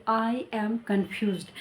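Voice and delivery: drawn-out teaching demo; slow model sentence. Shown as a demonstration. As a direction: slowly repeat the example. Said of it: "teacher repeats model sentence".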